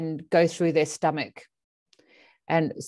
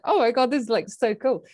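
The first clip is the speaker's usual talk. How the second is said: elated; 4 semitones higher than usual. Retold or imitated. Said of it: "she was just, like, elated".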